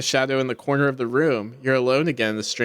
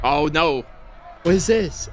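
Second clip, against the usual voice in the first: surprised; 3 semitones higher, slower than usual. Real, not acted. Door opens on strange scene.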